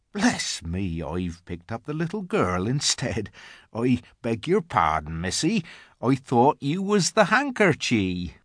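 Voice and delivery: contained country voice, rising on the apology; muttering rustic giant. A narrator's reading. Giant has picked up Lucy by mistake, muttering. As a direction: mumble an embarrassed apology as a gentle giant.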